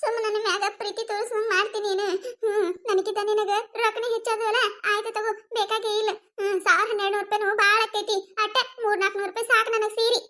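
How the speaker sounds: sulky mock sobbing through a laugh; fake crying. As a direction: put on tears to guilt the lover. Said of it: "ಅಳೋಕೆ ಚಾಲೂ ಮಾಡಿಬಿಡ್ತಾಳೆ".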